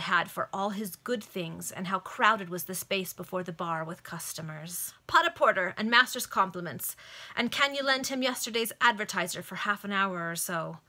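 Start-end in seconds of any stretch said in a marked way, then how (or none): 5.1-10.8 bright, louder call across the bar; servant girl's order. Acted. Servant girl calling her order across a busy bar, raised voice. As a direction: call the order over the crowd. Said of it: "said a pretty little servant girl".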